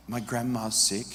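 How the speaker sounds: put-on soft and slow, a shy young girl barely answering; a hint of a timid girl, said softly and slowly; sheepish quiet voice. Preacher voicing the girl's shy answer, softly and slowly. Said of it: "in a real sheepish, quiet voice".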